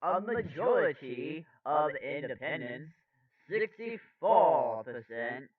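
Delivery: measured anchor delivery with punched words; news read. Acted. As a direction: read it out like a poll report.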